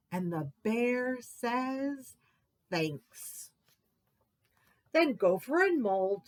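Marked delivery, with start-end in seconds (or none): 2.7-3.5 low, soft mumbled thanks; quiet thanks. Acted. Bear's reply, low soft.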